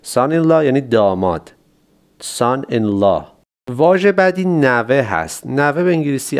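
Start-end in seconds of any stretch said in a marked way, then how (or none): 2.2-3.2 son in law بسیار کشیده و شمرده؛ son in law را آهسته و واضح بگو; slow model phrase. Shown as a demonstration. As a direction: son in law آرام، کلمه به کلمه. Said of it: "اینجوری یادش بگیرید".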